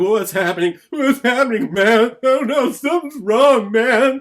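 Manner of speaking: high, loud panicked cries. Retold or imitated. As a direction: voice a dying man in panic. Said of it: "he's just going".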